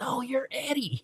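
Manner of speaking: lightly voiced Rufio, drawn out; insisting back. Rufio insisting Eddie is the star, mock voice.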